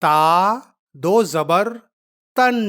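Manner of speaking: teacher sounding out تن; spelling-out demo. Shown as a demonstration. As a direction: spell it out, then sound تن with a held n. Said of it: "اب دونوں کو پڑھتے ہیں".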